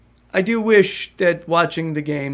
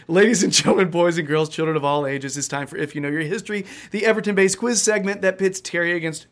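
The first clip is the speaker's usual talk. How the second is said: ringmaster; faster than usual. Shown as a demonstration. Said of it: "now I gotta redo it".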